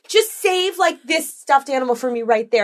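lightly voiced little boy. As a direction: ask like a small kid, lightly mimicked. Imitating unbothered little boy's reply.

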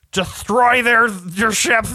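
high, lisped villain order, lightly done; lisping Ben Mendelsohn villain. Retold or imitated. Podcaster mimicking a lisping villain giving orders, light lisp. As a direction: mimic his lisping command, a touch angry. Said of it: "lisps through everything he says".

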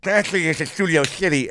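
high, teasing put-on voice; mock the date in a high voice. Mocking date conversation.

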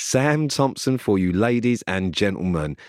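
stately mock introduction, every word spaced out; mock announcer. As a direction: present him slowly like a compère. Repeats sign-off as mock announcer.

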